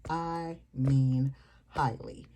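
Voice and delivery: highly drawn out slowly; stress on highly. Real, not acted. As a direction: lean hard on highly, slow. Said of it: "And when I say highly".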